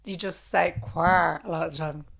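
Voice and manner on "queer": a hint of Wexford on "queer"; Wexford accent. Shown as a demonstration. Showing the co-host the one local word, light Wexford accent. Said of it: "if you're in Wexford".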